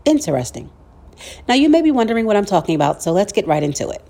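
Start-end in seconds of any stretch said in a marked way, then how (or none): 0.0-0.7 lower, understated sarcastic remark. Shown as a demonstration. Podcast host sarcastically reacting to what people are realizing, understated sarcasm. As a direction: say it with dry sarcasm. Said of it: "sarcastically, I say".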